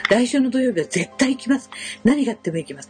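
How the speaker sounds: earnest promise. Retold or imitated.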